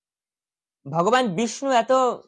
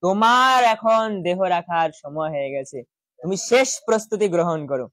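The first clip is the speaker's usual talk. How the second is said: gentle, smiling. Retold or imitated. Krishna smiling gently at Shishupal, mild calm warning. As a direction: say it kindly with a smile, taking your time. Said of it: "হেসে হেসে মৃদু স্বরে এবার শিশুপালকে হেসে হেসে বলছেন".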